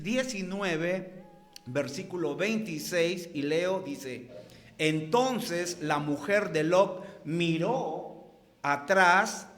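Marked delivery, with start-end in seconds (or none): 4.8-9.5 slow, measured reading of the verse; solemn scripture reading. Acted. Preacher reading Genesis nineteen aloud to the congregation, slow and solemn. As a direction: read it like holy text, unhurried.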